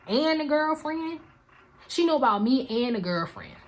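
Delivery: high, loud disbelieving rant; shocked outburst. Retold or imitated. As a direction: burst out in stunned disbelief. Shocked at learning she's known.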